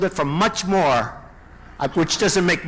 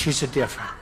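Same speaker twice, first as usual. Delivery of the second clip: mock sweetness; 3 semitones lower than usual. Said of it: "Then they said to Rubio".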